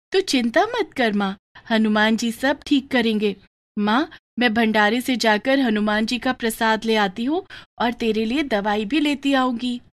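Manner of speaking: put-on a young girl soothing her crying mother; little daughter consoling.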